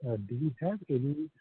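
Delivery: faint voice, hard to hear; speaking too softly into the phone; barely audible. Real, not acted. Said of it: "Sir, your voice is very low".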